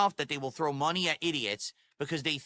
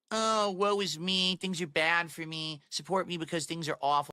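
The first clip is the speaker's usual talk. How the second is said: mock self-pitying whine. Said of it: "if I'm sitting here all day saying".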